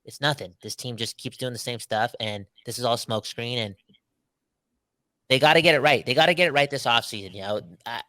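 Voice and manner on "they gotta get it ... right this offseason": emphatic. Real, not acted. Passionate demand about the team.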